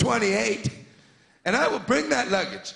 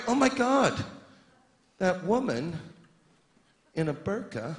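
a hushed, sinking voice of a scared passenger, much lower and softer; mock fearful whisper; 5 semitones lower, 4 dB quieter than usual. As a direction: whisper the alarm like a nervous traveller. Panicked traveller spotting luggage.

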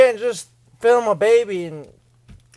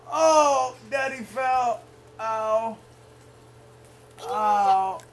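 hurt groaning; much slower than usual. Real, not acted. Dad has just fallen.

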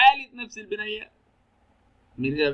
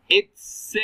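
stretched out and louder; slow reading; 5 semitones higher, 6 dB louder, much slower than usual. Shown as a demonstration. Teacher reading the gap sentence to his class, slowly drawn out. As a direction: drag the words out like a dictation.

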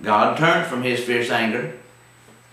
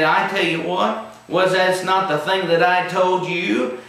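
mildly voiced, higher complaining prophet; a touch of retold indignation, pitched up; angry Jonah; 5 semitones higher than usual. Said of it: "He was very angry".

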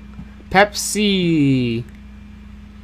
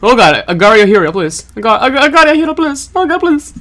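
high, loud, fast mock begging for mercy; mock pleading player; 9 semitones higher, 5 dB louder than usual. Retelling another player begging not to be eaten, high mock plea. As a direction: whine it out like a desperate player. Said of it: "he split and went".

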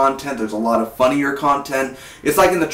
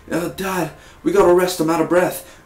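put-on whiny kid voice; 6 semitones higher than usual. Nobby's kid, out of breath.

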